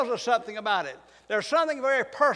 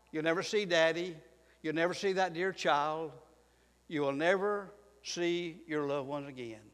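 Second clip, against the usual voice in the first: hushed grief; 6 semitones lower, 7 dB quieter than usual. Acted. Grief over lost loved ones.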